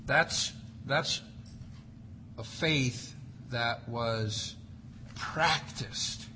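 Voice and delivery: near whisper, soft; hushed. Real, not acted. Preacher hushing to stress a practiced faith, whispered. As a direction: drop to a whisper.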